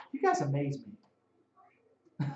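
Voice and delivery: slow mock Irish accent, sarcastic. Healed man teasing the Pharisees, slow Irish accent. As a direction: drawl it in a lightly Irish accent. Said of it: "let me say it in Irish".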